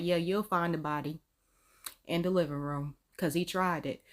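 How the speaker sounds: unbothered deadpan; completely fine. Acted. On the phone reporting a body, completely fine. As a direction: report it casually, as if nothing happened. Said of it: "completely fine on the phone like".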